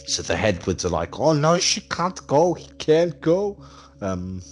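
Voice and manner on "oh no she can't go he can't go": high, loud mock-panicked protest; mock dismay. Host voices two scientists objecting, high mock dismay. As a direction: act out an alarmed "oh no".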